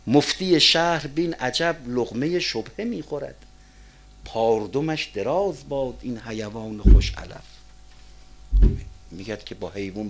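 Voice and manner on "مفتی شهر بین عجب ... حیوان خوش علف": slow, measured verse recital; poetry recitation. Real, not acted. Preacher quoting Hafez on the city mufti, slow recitation. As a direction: recite it slowly, phrase by phrase.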